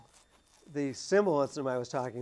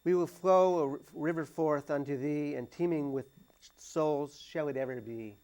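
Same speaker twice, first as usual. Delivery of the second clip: put-on Irish accent; 2 semitones higher than usual. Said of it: "I don't know if I'll be able to do it in an Irish accent".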